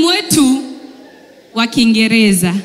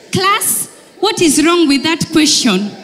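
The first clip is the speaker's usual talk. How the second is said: mock schoolteacher, slightly higher; a show-off teacher quizzing class; prim teacher; 4 semitones higher than usual.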